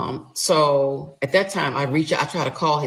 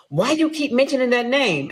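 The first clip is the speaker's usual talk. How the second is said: higher, louder husband's challenge; mock husband, defiant; 9 semitones higher, 5 dB louder than usual. Husband storming in, demanding why she keeps saying that name. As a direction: play him all puffed up, Billy Bad. Husband confronting her, retold.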